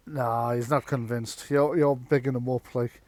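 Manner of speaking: a hint of a Welsh accent, lightly put on; half-hearted Welsh accent for a grumbling worker; bad Welsh accent. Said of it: "in an oddly not terribly Welsh accent".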